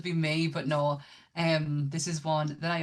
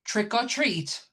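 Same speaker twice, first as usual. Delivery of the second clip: dramatic menacing read; much slower than usual. Pretend. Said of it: "I hope I don't butcher it".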